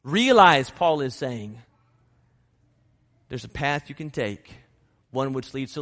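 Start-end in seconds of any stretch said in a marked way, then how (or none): 0.0-0.7 emphatic call. Real, not acted. Emphatic repeat.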